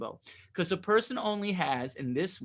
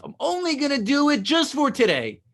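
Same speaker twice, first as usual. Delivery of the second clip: inner voice; 8 semitones higher, 5 dB louder than usual. Retold or imitated. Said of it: "when you think to yourself".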